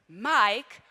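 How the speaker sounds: ordinary talk, nothing marked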